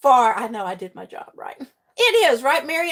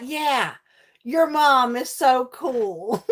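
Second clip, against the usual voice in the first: smug echo; much slower than usual. Retold or imitated. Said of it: "I'm like".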